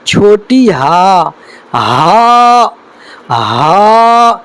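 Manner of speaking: ہا breathed from the start of the throat; airy model of ہا; breathy letter demo. Shown as a demonstration. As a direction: exhale each ہا. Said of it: "یہاں پر اب کیا ہے".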